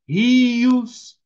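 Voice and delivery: loud, held "rios"; stress on plural RIOS. Shown as a demonstration. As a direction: stretch "rios" out to its final s. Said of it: "no plural".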